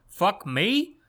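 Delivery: put-on high, loud New York accent yelling; textbook New York. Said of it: "delivers a textbook New York".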